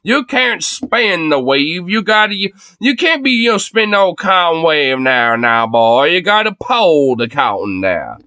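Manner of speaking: put-on lightly done Southern plantation owner accent, slowed; mock Southern drawl. Streamer mocking a politician in a mild Southern plantation accent. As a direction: tease him in a Southern aristocrat accent. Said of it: "he sounds like a Southern plantation owner".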